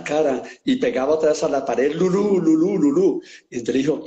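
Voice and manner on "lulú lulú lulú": repeated, higher mock cries; mock yell. A narrator's reading. Joke teller as patient punching the wall, mock yell. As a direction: imitate a madman's chant of the name. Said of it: "y gritaba".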